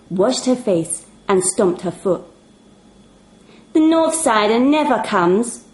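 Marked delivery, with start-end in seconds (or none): 3.7-5.6 put-on higher, bright child's exclamation; exclaimed. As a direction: announce it like a fed-up nine-year-old. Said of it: "exclaimed Shania".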